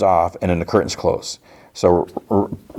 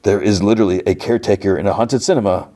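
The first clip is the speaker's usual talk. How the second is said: lightly hammed-up dramatic announcement; retold dramatic reveal; 2 semitones higher than usual. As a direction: say it with mock drama, every word spelled out. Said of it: "the doctor dramatically says to Belinda".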